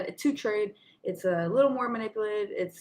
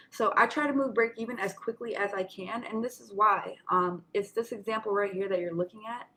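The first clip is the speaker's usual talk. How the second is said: slight lisp, talking around retainers. Real, not acted. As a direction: speak with retainers in, a light lisp. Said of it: "if I have a lisp today, guys, it's 'cause I have my retainers in".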